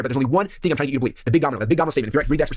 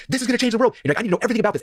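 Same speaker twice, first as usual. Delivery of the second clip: excited quote; 8 semitones higher than usual. Retold or imitated. Voicing a newly excited believer.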